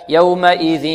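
"يومئذ" slowly, its ending held through nose and mouth; half-nasal merging. Shown as a demonstration. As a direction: hold a nasal hum on the tanween of "يومئذ". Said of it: "هكذا". ("يومئذ" بغنة من الفم والخيشوم)

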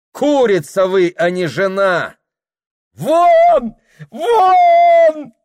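building from slow anger to a high shrieking вон; furious screaming. A narrator's reading. Mistress beside herself, screaming the girl out. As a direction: lose control and scream her out. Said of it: "Вне себя закричала хозяйка".

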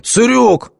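very high, loud shriek; shrieking yell. A narrator's reading. Naked man chasing girl, shrieking yell. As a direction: screech the order absurdly. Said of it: "орал он дурным голосом".

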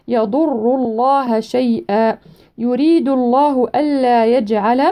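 tajweed recitation; Quran recitation. Shown as a demonstration. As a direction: draw the verse out melodically. Slow recitation of verse.

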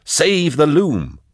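slow, mock-solemn repetition; slow echoed phrase; echoing Eisenhorn. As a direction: repeat his words in disbelief. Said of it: "he's trying to put out the fire".

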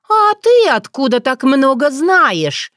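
high, slow accusing question; suspicious. Acted. Otrada suspecting Bogdan, accusing. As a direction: narrow your eyes and demand.

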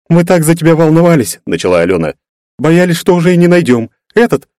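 voiced as a fretful young woman; worried girl. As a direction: pour out the worry. Girl worried about lost friend.

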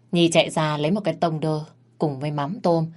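ordinary delivery, nothing marked

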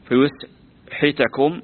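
very slow "فيسحتكم", broken up as fa-yus... ḥi-takum; damm on ya, kasr on ha. Shown as a demonstration. Teacher asking how it sounds, "فيسحتكم" drawn out as fa-yus-ḥitakum. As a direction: spell out "فيسحتكم" by ear with yu- and -ḥi-. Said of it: "بضم الياء وكسر الحاء".

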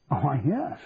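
mildly puzzled Scottish doctor; gentle Scottish accent; soft Scottish burr. A narrator's reading. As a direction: confirm it in a soft Scottish lilt. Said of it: "in a soft Scottish burr".

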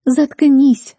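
angry hissed command; hissing shut-up. A narrator's reading. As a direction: cut her off sharply. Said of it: "зашипела Рейлин".

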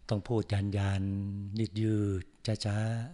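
mimicking a monk's slow drawl; drawn-out slow speech. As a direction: stretch every syllable out slowly.

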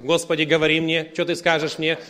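hammed-up demanding prayer; mock over-eager prayer. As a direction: parody someone straining for a divine signal. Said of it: "ты ходишь, как с антеннами".

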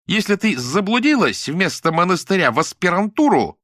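high, loud taunting shout; ringing shout. A narrator's reading. Lyuda taunts Nadya, sensing victory, ringing shout. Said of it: "всё звончей кричала Люда".

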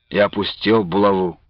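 plain reading voice

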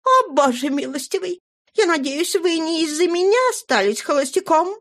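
high, chirpy twitter; chirping. Acted. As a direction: chirp it like a songbird. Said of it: "прощебетала Флора".

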